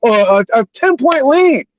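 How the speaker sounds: heated sports-fan venting; worked-up yelling. Real, not acted. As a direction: rant like a fed-up, emotional fan. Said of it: "I hate to be yelling and screaming".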